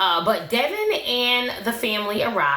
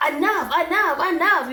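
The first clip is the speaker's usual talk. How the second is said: high-pitched mock yell; retold yelling; 9 semitones higher than usual. Yazan cutting Brittany off in the car, mock yelling. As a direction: imitate someone yelling over her, pitched well up. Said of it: "he's just getting louder".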